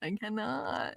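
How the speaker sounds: exasperated giving up. Retold or imitated. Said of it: "I was just like".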